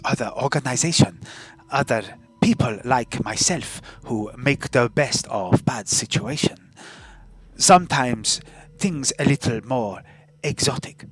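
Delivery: put-on foreign-accented fight promoter; lightly theatrical accented character voice; accented arena boss. Game character explains the fights.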